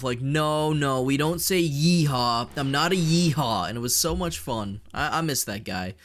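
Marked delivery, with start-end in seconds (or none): 0.2-3.7 slightly raised, drawn-out mock protest; imitated defensive protest. Streamer imitating a teased southern kid, mock defensive protest. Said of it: "always try and defend himself".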